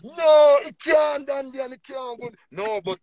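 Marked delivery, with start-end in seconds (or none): 0.0-1.3 loud, higher burst of refusal; sharp loud no. Real, not acted. Cutting in on the cohost about female acceptance, shouted denial. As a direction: cut in hard to shut the idea down. Host objects to cohost's complaint.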